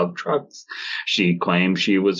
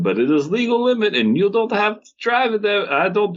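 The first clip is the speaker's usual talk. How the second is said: mock poster voice; 12 semitones higher than usual. Reading the Reddit poster.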